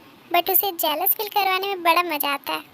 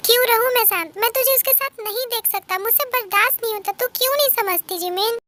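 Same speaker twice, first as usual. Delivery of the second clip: agitated, higher-pitched protest; angry; 4 semitones higher than usual. Acted. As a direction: refuse to calm down, pitch raised in mild anger. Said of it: "तू इतना गुस्सा क्यों कर रहा है". (गुस्से में, ऊँचे सुर में)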